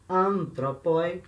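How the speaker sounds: "antropoi" stretched out, accent on An; long, stressed An opening "antropoi"; stress on first syllable. Shown as a demonstration. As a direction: slowly model "antropoi", leaning on An. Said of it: "o acento cai aqui atrás".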